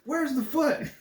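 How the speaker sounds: high, giggly replay of the line; laughing repeat. Retold or imitated. Reviewer giggling at his favorite line, high pitched. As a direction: say it again, cracking up. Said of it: "repeats the line laughing".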